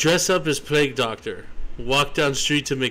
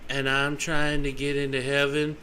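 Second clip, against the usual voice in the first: mock Barb; 5 dB quieter than usual. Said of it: "She'll be like".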